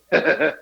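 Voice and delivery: Billy's sly little chuckle, acted out; short, mischievous mock snicker; imitated evil snicker. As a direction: snicker like you planned the whole thing. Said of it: "and Billy just goes".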